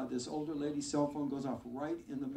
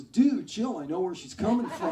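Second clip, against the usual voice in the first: surfer dude judge; 4 semitones higher, 11 dB louder than usual. Retold or imitated. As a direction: brush him off like a stoned surfer judge. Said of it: "Judge just looks at him and goes".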